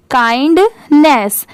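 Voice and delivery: काइंडनेस slowly, काइंड then नेस; word in parts. Shown as a demonstration. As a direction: draw out काइंडनेस in two halves. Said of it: "N E double S को पढ़ते हैं नेस". (काइंडनेस को धीरे, दो हिस्सों में बोलें)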